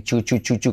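"chu" with a hard ch; wrong Y sound. Shown as a demonstration. Teacher warning students off an error, hard-ch "chu". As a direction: repeat "chu" with ch in place of Y. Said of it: "Cuidado no decir".

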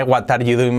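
"What are you doing?" with a Spanish "gwat" and "doo-een"; Spanish-sounding "gwat ar yu doo-een" for "What are you doing?"; mispronounced English. Shown as a demonstration. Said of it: "mal pronunciado".

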